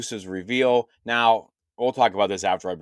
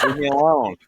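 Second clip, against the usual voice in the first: loud, higher comic protest; mock protest; 5 semitones higher, 6 dB louder than usual. Real, not acted. Host defending his pronunciation to co-hosts, loud mock protest. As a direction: protest loudly to the teasing room.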